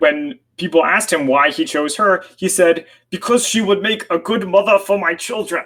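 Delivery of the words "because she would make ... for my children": put-on German accent, pitched up. Speaker retelling a man's quoted answer about his bride: german accent. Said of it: "Trying the German accent again?".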